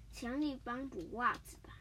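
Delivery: hushed whisper, no voice; whispered secret. Acted. Host revealing the gadget's secret to his friend in a whisper. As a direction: let them in on a secret in a whisper.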